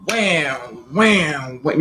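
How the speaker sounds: drawn-out, swooping "wham"; imitated blows. Retelling father pinning me down, imitated punches. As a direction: sound out each hit with a swoop.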